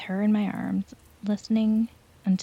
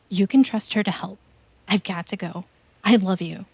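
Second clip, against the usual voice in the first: louder, urgent frantic warning; panicked mother; 3 dB louder than usual. Acted. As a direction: warn him desperately before time runs out. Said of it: "in panic".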